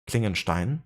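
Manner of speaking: Klingenstein said the German way, KLING-en-shtine with sh; German pronunciation. Retold or imitated. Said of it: "switch to heavy German accent".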